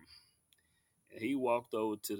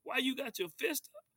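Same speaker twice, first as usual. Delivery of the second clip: mock outraged protest; 14 semitones higher than usual. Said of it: "I'm jumping up".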